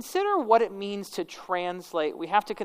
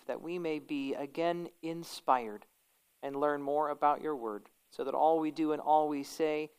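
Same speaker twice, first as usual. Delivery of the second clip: prayer; 2 semitones lower than usual. Acted. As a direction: pray it gently and earnestly. Leads the class in prayer.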